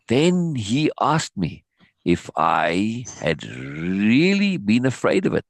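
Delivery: "really" leaned on, the line drawn out slowly; slow down and press the word "really"; stress on really. A narrator's reading. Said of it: "He stressed the word really".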